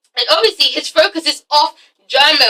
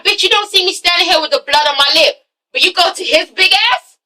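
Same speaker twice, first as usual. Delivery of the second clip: acted indignation; 4 semitones higher than usual. Acting out German's hurt, indignant look.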